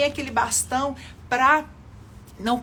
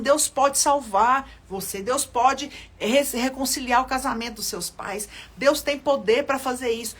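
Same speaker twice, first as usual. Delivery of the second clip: preaching; 3 dB louder than usual. Acted. Preaching declaration.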